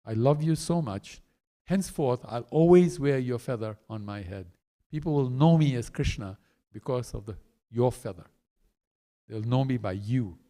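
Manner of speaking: low, gentle, heartfelt vow; tender gratitude. Acted. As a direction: speak lovingly, voice settled low. Krishna tenderly thanks the peacocks.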